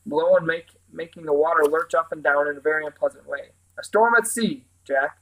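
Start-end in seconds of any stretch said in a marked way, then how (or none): 3.8-5.2 eager and higher, thrilled by the storm. Acted. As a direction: greet the storm like a treat. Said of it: "said the Scarecrow eagerly".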